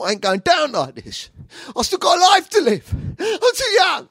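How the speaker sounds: high, loud shouted plea; hammed-up desperate yell; panicked protest. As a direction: plead for your life, voice shooting up. Acted panic at being attacked.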